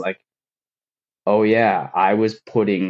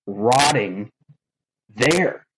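slow, upset, breaking toward the end; crying in the truck; slower than usual. Retold or imitated. Alone in his truck after being hired, a slow, upset retold lament. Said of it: "I just started crying".

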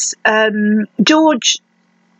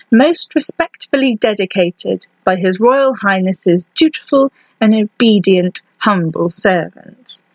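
formal dedication reading. Acted. Podcaster reading a royal dedication to listeners, formal and measured. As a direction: read it out deliberately, phrase by phrase.

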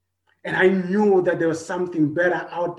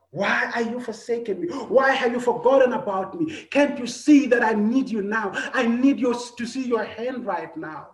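anguished psalm plea; 6 semitones higher than usual. Acted. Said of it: "repeats the same words that the psalmist said".

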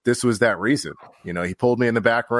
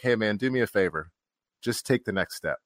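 softer, gently earnest retelling; quiet sincere plea; 5 dB quieter than usual. Retold or imitated. Mentor asks a favor after they reconcile, quietly sincere.

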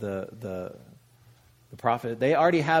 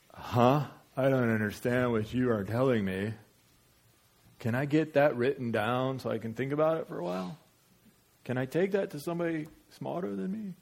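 baffled reaction. Acted. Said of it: "your initial reaction is".

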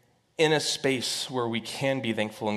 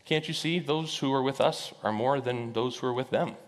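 calm. Acted. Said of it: "Elisha just calmly says".

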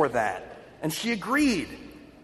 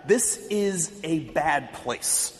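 freaked out; 3 semitones lower than usual. Retold or imitated. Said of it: "she kinda freaked out".

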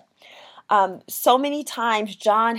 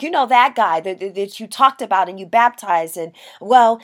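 louder, flustered mock complaint; in a tizzy; 5 dB louder than usual. John's followers report on the rival camp, mock tizzy. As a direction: stumble over it like worked-up followers. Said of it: "in a bit of a tizzy".

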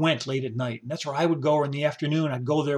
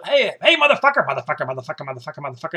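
playful call and response; 4 dB louder, faster than usual. Retold or imitated. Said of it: "we'd call each other".

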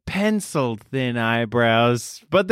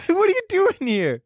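surprised. Acted. Surprised at Grandma Moldy.

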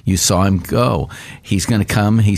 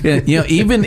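laughing; 8 semitones higher than usual. Real, not acted. Laughing after creed reading.

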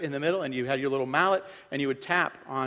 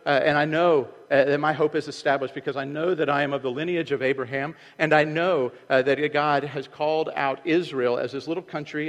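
proud insistence; 2 semitones higher, 6 dB louder than usual. Retold or imitated. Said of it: "He says".

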